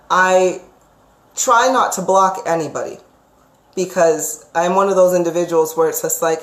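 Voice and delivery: ordinary talk, nothing marked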